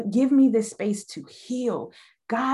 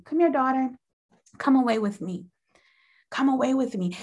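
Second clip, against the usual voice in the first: loving God voice; 3 semitones higher than usual. Retold or imitated. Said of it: "God would just so lovingly say".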